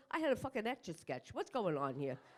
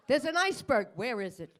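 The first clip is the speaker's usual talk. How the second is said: mock excitement; 4 semitones higher, 8 dB louder than usual. Excited at iceberg fantasy.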